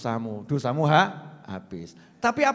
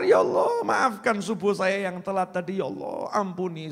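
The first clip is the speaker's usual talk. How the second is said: pleading prayer. Retold or imitated. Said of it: "Langsung istighfar".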